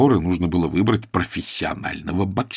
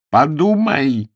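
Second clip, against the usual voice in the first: slow, louder, higher wail; howling plea; 6 semitones higher, 5 dB louder, much slower than usual. Acted. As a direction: wail it out, begging. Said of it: "взвыл мистер Превин".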